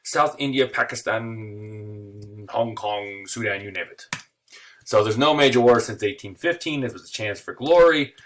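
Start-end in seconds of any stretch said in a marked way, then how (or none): 0.0-4.1 a blustering imperial Brit, half-joking; British jingoist boasting of conquests; mock British patriot. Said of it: "the British would say".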